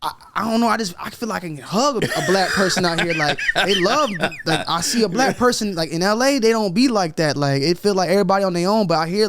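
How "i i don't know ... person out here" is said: imitating amazed uncles. Retelling uncles from LA on Atlanta, laughing impression. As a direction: quote the uncles with a laugh, lightly acted. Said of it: "They were like, they were like".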